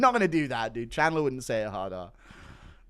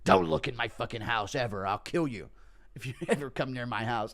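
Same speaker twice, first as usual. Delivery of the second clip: Chandler warning; 3 semitones lower than usual. Acted. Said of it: "Chandler's Enderman farm".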